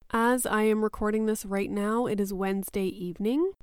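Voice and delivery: hoarse, stuffy voice from a cold; croaky, with plugged sinuses; frog voice. Real, not acted. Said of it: "So bear with my frog voice".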